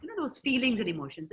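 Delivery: slow, soft, heartfelt delivery. Shown as a demonstration. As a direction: speak softly and slowly from the heart. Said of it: "just a little demonstration of what you can do with your voice".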